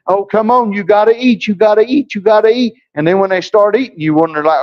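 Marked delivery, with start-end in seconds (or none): 0.1-2.7 coaxing parent. Retold or imitated. Coaxing a child to eat.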